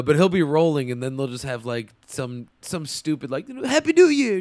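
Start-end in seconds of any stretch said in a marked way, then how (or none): 3.6-4.4 cheesy one-liner. Retold or imitated. Mock action one-liner.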